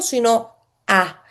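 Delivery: "a" held long and open; slow open A. Shown as a demonstration. Teacher showing how not to rush the amen, slow. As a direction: draw out "sino a" unhurried. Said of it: "No decirlo rápido".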